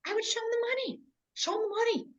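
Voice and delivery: high, soft, breathy sing-song take; lightly put-on high voice; mock voice. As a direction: float the words up high like a sales pitch. Replays her line in a put-on voice.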